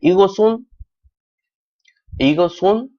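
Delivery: ईगो सुन lifted high with a rising end; linked reading. Shown as a demonstration. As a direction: model ईगो सुन with an s, pitch climbing. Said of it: "ईगो सुन पढ़ेंगे". (ईगो सुन ऊँचे, चढ़ते सुर में)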